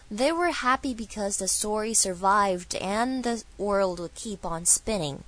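slow, measured English line for learners; carefully paced demonstration reading; model sentence reading. Shown as a demonstration. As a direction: read the whole sentence slowly as a model. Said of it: "请大家多多揣摩原始的句式".

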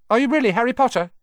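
fast, high, breathless question; eager blurt. A narrator's reading. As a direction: blurt it out in awe. Ron blurts out.

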